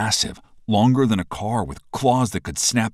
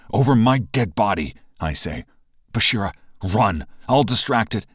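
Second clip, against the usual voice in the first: determined call; 4 semitones higher, 5 dB louder than usual. Acted. Hero facing the monster.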